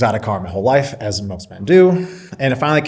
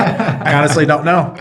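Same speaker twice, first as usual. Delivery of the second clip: laughing reply; 5 semitones higher, 4 dB louder than usual. Retold or imitated. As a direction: answer through a laugh. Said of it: "I'm like".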